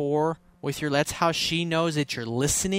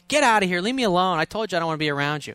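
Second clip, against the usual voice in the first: higher, louder imitated outburst; mock angry girlfriend; 4 semitones higher, 3 dB louder, faster than usual. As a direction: snap at him as the upset girlfriend, hammed up. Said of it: "She may".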